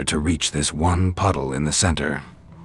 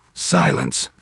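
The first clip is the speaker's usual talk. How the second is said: much higher, sharp command; commanding silence; 13 semitones higher than usual. A narrator's reading. Angel silencing the hand's teasing, sharp. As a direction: cut him off cold. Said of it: "he says".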